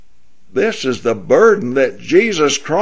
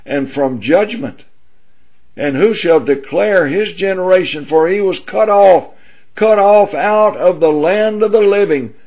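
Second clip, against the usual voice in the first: higher-pitched, solemn reading of the prophecy; scripture reading; 3 semitones higher than usual. Acted. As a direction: read the verses as a rising sermon recital. Reads Isaiah 53 aloud.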